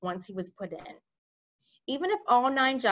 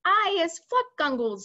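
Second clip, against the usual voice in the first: higher, louder giant scream; 8 semitones higher, 5 dB louder than usual. Acted. Maidmasher screaming while tied up, high and loud. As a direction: scream it like a trapped monster. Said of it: "screamed the maid masher".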